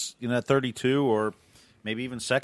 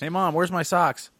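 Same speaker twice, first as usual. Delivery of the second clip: slow, raised call to Mom; yelling across the room; 6 semitones higher, slower than usual. Pretend. Joke: Gronk calling his mom.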